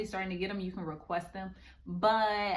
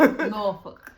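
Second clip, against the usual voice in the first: "Norfolk" laughed out loud, higher; laughing loud correction; 4 semitones higher, 13 dB louder than usual. Real, not acted. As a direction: correct him through a big laugh. Laughing correction of host's pronunciation.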